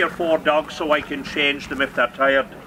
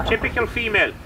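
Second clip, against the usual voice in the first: laughing; 8 semitones higher, faster than usual. Real, not acted. Joking about the dog.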